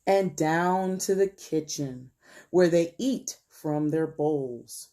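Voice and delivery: slow, careful picture-book narration; read-aloud storytelling. A narrator's reading. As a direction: read slowly to children, lingering on each phrase.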